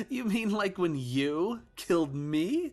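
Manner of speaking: high, slow, uncanny accusing voice; a child's voice gone wrong; sinister child ghost. Acted. Ghost son accusing his father, slow and eerie.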